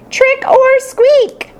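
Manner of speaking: high, slow, drawn-out hamster shout; slow squeaky ghost cry. Acted. Hamster playing ghost for the class, slow squeaky cry. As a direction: stretch it out like a spooky little ghost. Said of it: "I cried".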